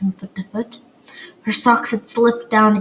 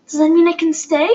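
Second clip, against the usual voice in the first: high, hopeful question; 7 semitones higher, faster than usual. A narrator's reading. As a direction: ask with hope lifting the voice. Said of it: "Poppy said hopefully".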